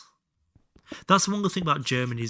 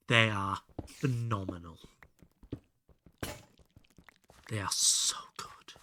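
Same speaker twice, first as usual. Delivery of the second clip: awed whisper. Real, not acted. Raving about brookies.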